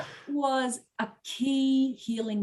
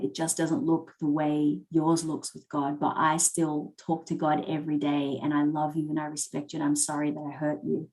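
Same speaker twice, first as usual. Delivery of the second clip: tender, lower-pitched plea to dad; pure innocence; 3 semitones lower than usual. Retold or imitated. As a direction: read the letter gently and openly. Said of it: "just pure innocence. And I'm like".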